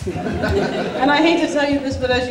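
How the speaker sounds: said through a laugh. Real, not acted. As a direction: laugh while you speak, slowly. Laughing mid wedding toast.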